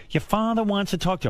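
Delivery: a hint of a summoning mother; mother's summons. Mother sends son to his father, lightly put-on voice.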